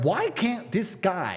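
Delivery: exasperated mock opponents; mock-frustrated complaint; imitated frustration. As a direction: mimic frustrated enemies, words drawn out. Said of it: "they're very frustrated".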